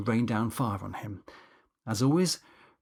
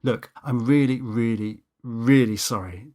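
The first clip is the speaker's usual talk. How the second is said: contrite; 4 dB louder than usual. Acted. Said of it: "crank up the contrition".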